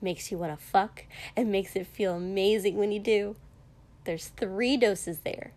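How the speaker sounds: bright, matter-of-fact cheer; mildly bright and cheerful. Acted. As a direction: say it brightly, unembarrassed. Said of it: "she added brightly".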